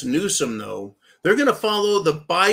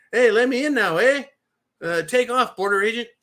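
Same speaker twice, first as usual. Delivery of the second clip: louder, higher hammed-up Mexican-Canadian accent; comic Mexican-Canadian put-on, pitched up; mock Mexican-Canadian accent; 5 semitones higher, 4 dB louder than usual. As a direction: play up a jokey Canadian "eh" in a Mexican-Canadian voice. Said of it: "It's like a Mexican Canadian".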